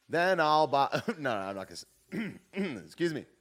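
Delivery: ordinary talk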